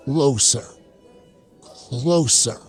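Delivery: slow, hushed-in suspense build; drawn-out suspense. Acted. The creature leans in to the narrator, slow suspense. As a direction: draw each word out, creeping in.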